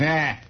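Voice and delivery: short offhand eh; unimpressed grunt; dismissive grunt. Retold or imitated. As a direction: brush it off with a grunt. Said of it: "Garfield goes".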